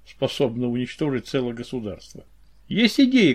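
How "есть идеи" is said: оживлённо. A narrator's reading. Оживлённый вопрос Помпасника.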